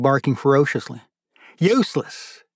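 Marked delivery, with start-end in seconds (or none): 1.6-2.4 yelling at the dog. Acted. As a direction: snap the dog's name sharply upward. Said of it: "he yelled again".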